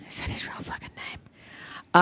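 slow, disbelieving whisper; a hushed slow aside of disbelief; incredulous whisper. Real, not acted. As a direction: mutter it under your breath in disbelief. Incredulous aside about Paul Hollywood.

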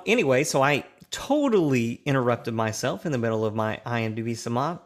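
ordinary delivery

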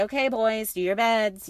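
sweet tone. Shown as a demonstration. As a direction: ask nicely, a touch sugary. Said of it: "you know, like that".

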